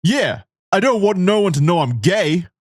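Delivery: a hint of a nervous kid; little boy voice. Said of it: "the little boy".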